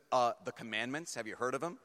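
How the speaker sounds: imitating a sassy sister; mock-sassy, as if it's obvious. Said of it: "she was sassy".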